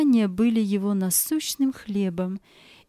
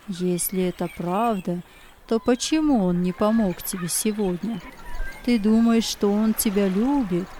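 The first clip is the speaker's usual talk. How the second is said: evil spirit whispering; 3 semitones lower than usual. Acted. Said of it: "Злой дух стал нашептывать ему".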